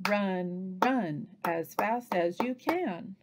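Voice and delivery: slow, evenly spaced words; word-by-word tapping. Shown as a demonstration. Teacher taps out another book phrase, word by word. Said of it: "tap out the words in a sentence".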